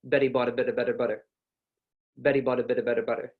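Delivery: fast American flapped T, Betty like Beddy; American accent. Shown as a demonstration. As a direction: roll through Betty bought a bit of better butter quickly. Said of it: "we don't flick the tongue. Instead, we kinda just roll it".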